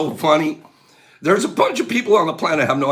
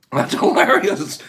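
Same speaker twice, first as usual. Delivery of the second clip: laughing through the words; giggling as she speaks; 2 semitones higher than usual. Real, not acted.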